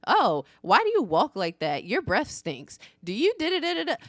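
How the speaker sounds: mimicked picky schoolkids; mildly mocking, nagging imitation; nitpicking and nagging. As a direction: needle with question after question. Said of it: "just nitpicking and nagging".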